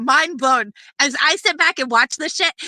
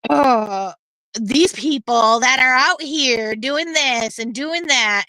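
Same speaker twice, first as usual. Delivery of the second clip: lower, slow mock of a dismissive streamer; mocking Brittany; 3 semitones lower, slower than usual. Mocking the streamer's dismissive live talk, slow and low. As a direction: drag it out like the streamer being mocked. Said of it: "to go live and be like".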